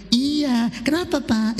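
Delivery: contoh jawaban manis kepada suami; lembut. Shown as a demonstration. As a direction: jawab dengan ramah. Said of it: "Gitu, latihan". (jawaban lembut dan manis)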